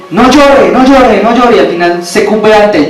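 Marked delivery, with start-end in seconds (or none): 0.1-1.6 high, hammed-up "no llore" with mock authority; hushing father. Preacher imitates a father telling his crying son no llore. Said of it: "lleno de autoridad, le dice".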